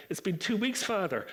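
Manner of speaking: put-on a young lad owning up to Father; confessing patient. Patient answering the doctor like a priest, confessing. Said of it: "the Irish accent, he thought he was in confession".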